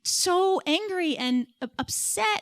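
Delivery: exasperated, high-pitched retelling of a tearful plea; retold tearful pleading. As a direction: reenact a worked-up, wounded protest, stretching the key words. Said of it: "So I just be crying".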